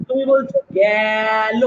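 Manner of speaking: গেল drawn out with an open æ, slow; গেল with open vowel. Shown as a demonstration. Teacher slowly models গেল with an open æ for students. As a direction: stretch গেল as gæl. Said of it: "এ".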